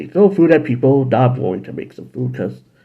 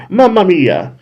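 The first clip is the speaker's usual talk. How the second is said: put-on Italian accent; 5 semitones higher, 3 dB louder, slower than usual. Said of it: "I don't want to do Italian".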